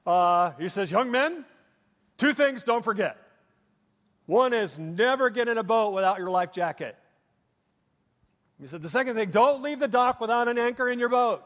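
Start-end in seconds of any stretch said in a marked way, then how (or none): 0.9-7.0 a light Scandinavian lilt, raised and firm; Scandinavian accent. Retold or imitated. Boating instructor lecturing young lads in a Scandinavian accent. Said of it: "spoke in a very Scandinavian accent". 8.8-11.4 a light Scandinavian lilt, raised and firm; Scandinavian accent. Retold or imitated. Boating instructor lecturing young lads in a Scandinavian accent. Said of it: "spoke in a very Scandinavian accent".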